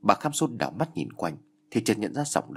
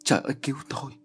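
screaming; 4 semitones higher, much faster than usual. Acted. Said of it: "Bà thét lên".

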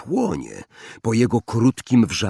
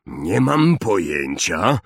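Hagrid muttering; slower than usual. Acted. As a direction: mumble it to yourself, baffled. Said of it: "mruknął Hagrid".

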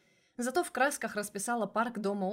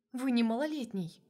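indignant protest, a bit louder; 3 semitones higher, 3 dB louder than usual. Acted. Lesya protesting indignantly to her boss. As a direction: bristle at the joke. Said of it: "возмутилась я".

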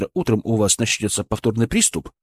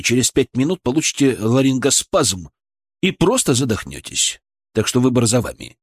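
cold commanding. Acted. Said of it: "Мой голос стал холодным, властным".

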